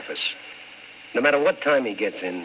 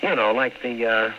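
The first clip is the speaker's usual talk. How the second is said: steady hard-boiled narrator voice, telling it over music; story narration; 2 semitones higher than usual. A narrator's reading. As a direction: narrate it like an old radio detective looking back.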